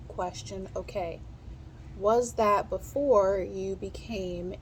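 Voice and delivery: slow, even dictation reading with labels; measured test-dictation voice. Acted. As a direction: read each question and answer slowly for a steno drill. Reads Q and A dictation.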